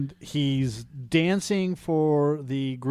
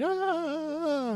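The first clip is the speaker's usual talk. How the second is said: long, high mock scream; imitated fangirl scream; 4 dB quieter than usual. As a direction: squeal like screaming girls at a concert.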